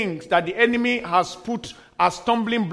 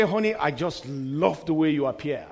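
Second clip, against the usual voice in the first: lower, softer, lightly acted compliment; acted admiring spouse; 5 semitones lower, 5 dB quieter than usual. Spouse complimenting the partner's appearance, soft acted admiration. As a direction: drop the voice to admire your partner.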